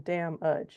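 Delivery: "damn udge" with a short uh in the last syllable; schwa in damage. Shown as a demonstration. Teacher showing the schwa in an English word, "damn udge" with an uh ending. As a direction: say "damn udge", second vowel reduced to uh. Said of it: "We say damn udge".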